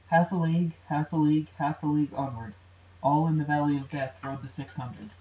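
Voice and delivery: rhythmic reading of a battle poem; poem recitation. Acted. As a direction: recite with a steady galloping beat. Reads the poem aloud.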